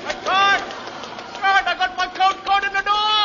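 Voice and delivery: panicked squeak while running; high squeaky goon voice. Acted. Running beside the car.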